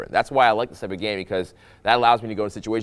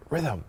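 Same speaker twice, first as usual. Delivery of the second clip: "rhythm" set apart by pauses, softer; rhythmic emphasis; 5 semitones higher, 8 dB quieter than usual. Shown as a demonstration. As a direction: isolate "rhythm" as its own soft beat. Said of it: "There is".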